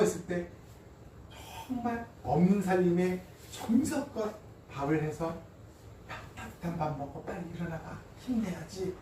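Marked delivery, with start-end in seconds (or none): 6.1-9.0 soft, gentle coaxing, lightly acted; lightly voiced caring mother. Mother to sick child with a warm meal, tender coaxing. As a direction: softly urge someone ailing to get up. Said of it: "이 엄마들 생각이 나요".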